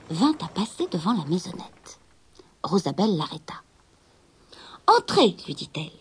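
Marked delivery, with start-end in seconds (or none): 4.9-5.4 high, louder invitation; young girl. Acted. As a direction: call the merchant inside. Rosabelle appelle la marchande. (voix aiguë de jeune fille)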